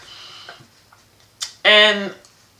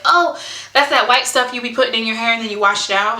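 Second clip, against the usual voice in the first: put-on light, quick little-girl voice, a touch higher; voicing her daughter; 4 semitones higher, faster than usual. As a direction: mimic a curious six-year-old rattling it off fast. Six-year-old daughter voiced in story.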